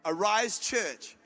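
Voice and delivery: "Arise Church" very slowly, each word separate; slow spelled out. Shown as a demonstration. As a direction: say "Arise Church" slowly so they can write it down. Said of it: "write it down".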